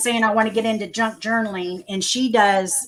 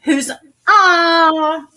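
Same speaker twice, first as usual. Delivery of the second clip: excited squeal; 6 semitones higher, 6 dB louder than usual. Real, not acted. Delighted greeting of chat guest.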